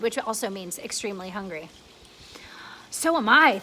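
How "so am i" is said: ladybug crying out. Acted. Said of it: "the ladybug cried".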